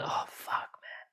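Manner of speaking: whispered, muttered curse at himself; self-scolding. Retold or imitated. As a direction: hiss the curse under your breath. Harsh self-talk after a mistake.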